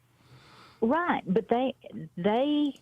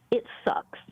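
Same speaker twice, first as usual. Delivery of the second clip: whispered aside. Real, not acted. Whispered to the host about sticking to the diet. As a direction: drop to a dry whisper.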